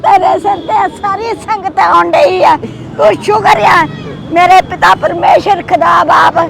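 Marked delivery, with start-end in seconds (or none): 3.0-6.4 earnest blessing prayer, steady chant-like flow; heartfelt prayer. Real, not acted. (ਅਰਦਾਸ ਕਰਦੀ ਆਵਾਜ਼)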